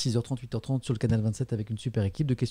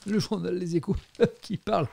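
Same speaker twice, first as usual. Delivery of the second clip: laughing; 6 semitones higher than usual. Real, not acted. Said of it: "C'est beau la vie, non?".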